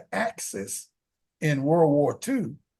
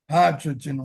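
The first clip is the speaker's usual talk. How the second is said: emphasis on hydrogen, set off by a pause; pause, then lean on the word hydrogen; stress on hydrogen. Real, not acted. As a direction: hydrogen singled out with deliberate weight. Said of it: "I emphasize the word hydrogen".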